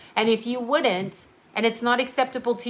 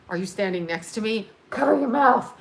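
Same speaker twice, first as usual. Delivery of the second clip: mock fearful; 4 dB louder than usual. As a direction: pretend alarm that rises into loud commands. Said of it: "And people became fearful".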